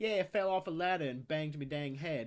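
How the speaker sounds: put-on thick, heavy British accent. Retelling a woman with foreign accent syndrome explaining herself, in a thick British accent. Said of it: "had like a very thick like British accent".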